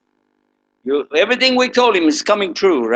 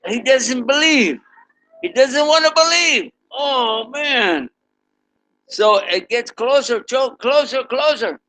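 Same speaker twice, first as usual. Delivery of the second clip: rising suspense; 8 semitones higher than usual. A narrator's reading. Building suspense as train nears.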